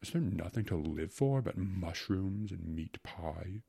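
slow, disdainful grumble; philosopher's slow, scornful question; contemptuous. Acted. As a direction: draw it out with mild scorn. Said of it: "with a look of contempt".

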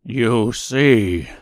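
put-on lion voice with a whimper; whimpering cowardly lion. A narrator's reading. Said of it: "said the Cowardly Lion with a whimper".

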